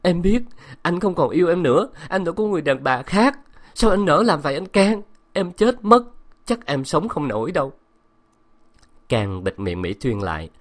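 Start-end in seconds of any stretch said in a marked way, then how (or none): 0.0-7.7 high, loud wailing cry. Acted. Betrayed wife wails at her husband, crying and loud. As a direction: wail through tears, breaking high. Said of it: "vừa khóc, vừa gào".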